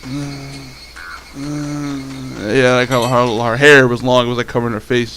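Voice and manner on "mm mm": soft drawn-out "mm"; slumped teacher groan. Retold or imitated. Imitating the slumped, hungover teacher, soft groaning. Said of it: "she was like".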